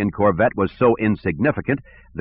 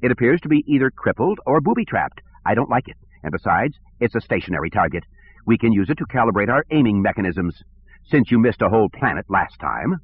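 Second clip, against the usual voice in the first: whiny bureaucrat; 2 semitones higher than usual. Acted. Sivron voice.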